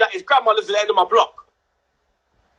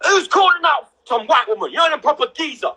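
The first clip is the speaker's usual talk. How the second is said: angry shout back; 4 semitones higher than usual. Retold or imitated. Auntie coming out to confront nan, higher angry shout. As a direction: fire it back like an offended auntie.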